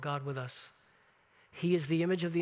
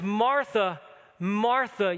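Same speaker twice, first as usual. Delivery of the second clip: tender repeated name; 4 dB louder, much slower than usual. Retold or imitated. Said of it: "with great feeling and great tenderness".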